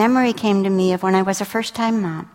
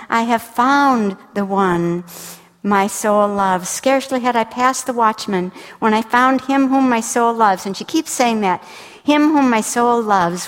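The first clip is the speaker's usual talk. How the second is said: joyful scripture reading; 3 semitones higher than usual. Acted. Bride's joyful declaration, slow.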